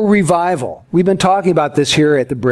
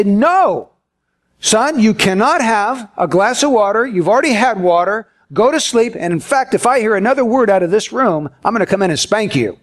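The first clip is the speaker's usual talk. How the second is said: exasperated dad; 2 semitones higher than usual. Retold or imitated. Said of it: "you're so exasperated and frustrated".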